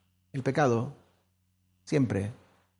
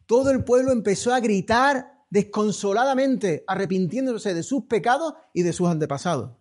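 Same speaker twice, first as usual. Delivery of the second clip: louder, higher, building fervour; preaching climax; 3 semitones higher, 4 dB louder than usual. Real, not acted. Preacher stirring the church about the people's repentance, fervent and loud. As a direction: rise to a passionate peak.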